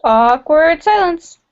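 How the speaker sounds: slow, deadpan announcement; deadpan narration. Pretend. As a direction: say it like a dry caption. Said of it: "announces the silence".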